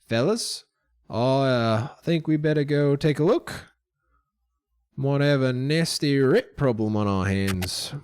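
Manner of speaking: lightly voiced mine boss; rally the companions, a touch of character voice; mildly put-on boss addressing his crew; Don John.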